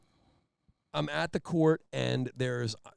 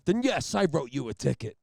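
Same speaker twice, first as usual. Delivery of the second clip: Jack Nicholson impression; 3 semitones higher, 5 dB louder than usual. Trooper lectures the courtroom like Jack Nicholson. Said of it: "like he's Jack Nicholson".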